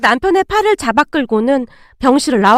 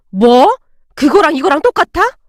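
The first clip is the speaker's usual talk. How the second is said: sharp, louder outburst of disbelief; angry mother-in-law; 3 dB louder than usual. Acted. Mother-in-law snapping angrily at her son. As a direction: snap back at him in outrage. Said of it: "잔뜩 화가 나신 채 소리치고".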